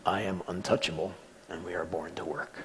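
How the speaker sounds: retold softly, sinking away at the end; resigned slow reply. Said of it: "Then he slowly replied".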